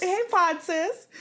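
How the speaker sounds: slow, high sing-song greeting; playful echo. Real, not acted. Echoes greeting in higher voice.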